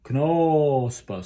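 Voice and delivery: "Knospe" with a clear, open O; "Knospe" spoken with a long O vowel; O vowel demo. Shown as a demonstration. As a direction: dwell on the O in "Knospe". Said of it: "So the O vowel on Knospe".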